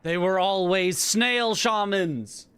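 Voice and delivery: put-on high, slow old granny voice; grandma voice. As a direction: play the creaky old grandmother. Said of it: "Love my grandma voice".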